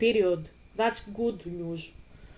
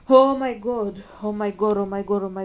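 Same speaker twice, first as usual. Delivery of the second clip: shocked outburst; 6 dB louder than usual. Real, not acted. Streamer shocked by the story, loud exclamation. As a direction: blurt it out in shock. Outburst after swearing at twist.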